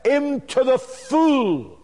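"full" drawn out long with a falling tune; stress on full. Real, not acted. Preacher leading listeners step by step, stress on "full". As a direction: lean slowly and heavily on "full". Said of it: "let me emphasize the word".

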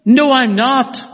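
mock-defensive Peter; Peter's denial. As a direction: deny it harder this time. Peter denying again.

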